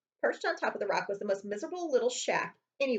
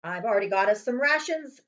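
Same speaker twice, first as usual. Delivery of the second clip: Uncle Vernon; 7 dB louder than usual. Acted. Uncle Vernon voiced in story.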